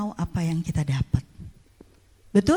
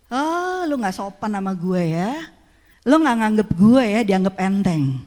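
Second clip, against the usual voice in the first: indignant, louder husband voice; hurt pride, pushed out harder; offended husband; 5 dB louder than usual. Retold or imitated. Husband scolding wife, offended and louder.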